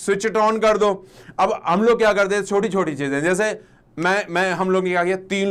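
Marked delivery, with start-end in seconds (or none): 0.1-0.6 slow teaching model. Shown as a demonstration. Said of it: "switch on कर दो".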